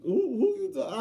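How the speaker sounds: angry shout. Retold or imitated. Confronting the grumbling employee.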